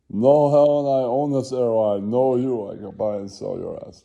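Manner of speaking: high, loud mock bragging; hammed-up billionaire boast; boasting rich guy. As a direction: brag like you own the airline. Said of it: "Then an Asian guy is like".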